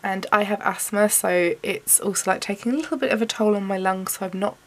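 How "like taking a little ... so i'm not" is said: wheezy, short of breath. Real, not acted. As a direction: push words out through wheezing lungs. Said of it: "sorry if I sound like I'm wheezing".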